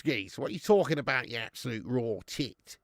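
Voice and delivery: mock Cockney ribbing. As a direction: throw on a light Cockney accent to scoff. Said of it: "Cockneys sound like this".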